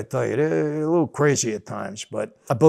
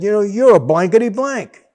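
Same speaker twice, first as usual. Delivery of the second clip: retold cussing out; 5 semitones higher, 6 dB louder than usual. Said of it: "He starts cussing me out".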